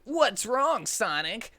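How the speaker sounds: high, concerned mother calling through the door; mom's voice. Acted. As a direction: play the worried mom. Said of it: "asked Sonic's mom".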